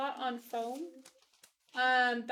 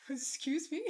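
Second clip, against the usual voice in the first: kind gentle laugh; 3 semitones higher than usual. Real, not acted. Laughs at viewer's comment.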